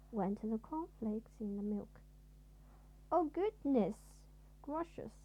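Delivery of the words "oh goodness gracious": higher, louder frightened cry; startled cry. A narrator's reading. Mister Jelly startled by his cornflakes, crying out. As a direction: cry out at the crackling cereal. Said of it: "cried Mister Jelly".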